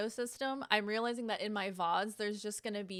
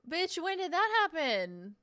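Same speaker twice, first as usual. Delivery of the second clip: high, loud disbelief; real indignant surprise; shocked outburst; 7 semitones higher, 5 dB louder than usual. Real, not acted. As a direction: yelp it in outrage. Discovering adblock turned off.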